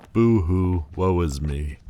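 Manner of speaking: theatrical mock lament, loud at first; mock self-pity. Fallen demon brushes off their own tragedy, mock self-pity. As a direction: wail it sarcastically, then settle.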